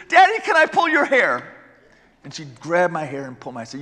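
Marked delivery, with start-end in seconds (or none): 0.1-1.5 imitating little daughter. Daughter voiced during painful procedure.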